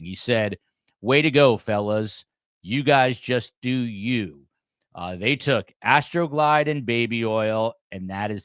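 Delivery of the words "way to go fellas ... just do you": mildly mocking, condescending quote; sarcastic. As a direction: punch the opening like sarcastic praise. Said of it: "He was sarcastic. He was almost condescending".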